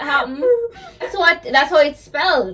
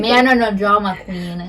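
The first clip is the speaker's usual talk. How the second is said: Jamaican accent. Shown as a demonstration. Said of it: "dig in a Jamaican accent".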